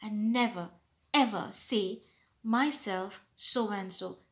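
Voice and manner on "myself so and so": wrong way, slow. Shown as a demonstration. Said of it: "That is not how you should say".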